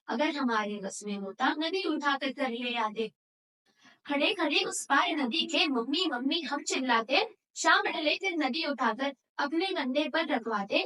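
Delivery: measured, rhythmic declaiming of verse; poem recitation. Acted. Student presenting a river poem to an audience, rhythmic recitation. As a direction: recite line by line in a steady beat. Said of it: "कविता नदी कंधे पर प्रस्तुत करने".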